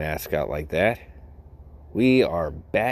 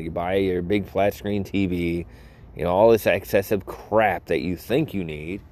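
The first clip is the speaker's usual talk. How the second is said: exasperated. Retold or imitated. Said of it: "I'm like".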